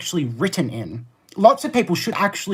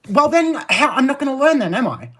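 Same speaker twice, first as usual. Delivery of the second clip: sarcastic; 8 semitones higher than usual. Real, not acted. Sarcastic reply to viewer.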